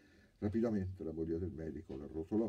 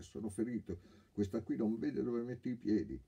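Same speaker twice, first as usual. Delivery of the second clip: a touch of pained grumbling, raised; groaning complaint; 7 semitones higher, 4 dB louder than usual. Acted. Wounded thief snapping at the girl, groaning. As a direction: gripe about the clumsy girl, groaning. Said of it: "gemendo e imprecando".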